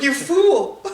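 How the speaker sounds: high, loud scolding yell; mock yelling. Imitating a woman yelling at him for tripping, mock yelling. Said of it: "her yelling at him".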